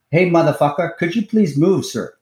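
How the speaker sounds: put-on polite-request lilt in a rough UK accent; attempted UK accent. Teammate turning round in the boxed-in car, attempted UK accent. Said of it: "I wish I could talk in his accent".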